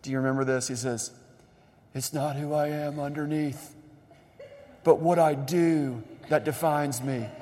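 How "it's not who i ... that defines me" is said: gruff, rasped Batman line; preacher imitating Batman's rough voice, with a laugh; Christian Bale scruff voice. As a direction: growl it like the movie hero. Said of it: "in that real scruff voice Christian Bale says".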